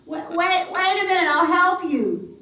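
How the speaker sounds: high, urgent call; calling after her. Acted. Driver calling to the girl in the woods, high urgent call. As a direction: plead with her to wait.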